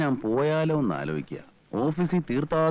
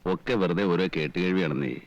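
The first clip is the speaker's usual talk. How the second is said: low-pitched, resigned dismissal; weary resignation; 9 semitones lower than usual. Acted. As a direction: give up hope, voice sunk low. Husband gives up on having children.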